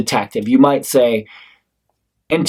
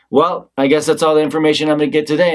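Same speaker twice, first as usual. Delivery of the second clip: detective giving up; faster than usual. Acted. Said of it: "if the detective says to me".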